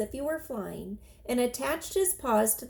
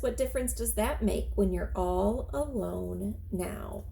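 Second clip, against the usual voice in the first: stars speaking. Acted. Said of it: "said the stars".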